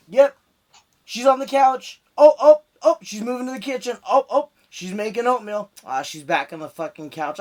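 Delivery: excited, loud play-by-play spying; mock surveillance watcher. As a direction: narrate her every move like a spy. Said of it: "Bill Gates gonna be like".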